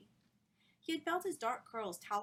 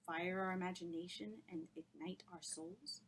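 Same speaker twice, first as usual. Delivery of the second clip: softer, rising disbelieving echo; incredulous echo; 4 dB quieter than usual. Acted. Charlie echoing her words in quiet disbelief. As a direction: repeat it as if it's absurd.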